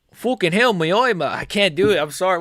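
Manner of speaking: high, loud pained British complaining; hammed-up injured fighter apologizing; Tom Aspinall impression. A second try at the retiring champ, loud and high. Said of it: "How does he sound again?".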